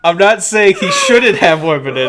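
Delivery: loud, high, helpless laughter through the words; laughing protest. Real, not acted. Podcaster defending his clumsy remark about women, laughing hard. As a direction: protest loudly while cracking up.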